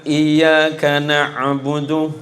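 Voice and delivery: slow, careful recitation; lightly voiced teacher modelling the verse; teacher reciting. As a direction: spell it out like a Quran teacher. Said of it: "Gurunya bilang".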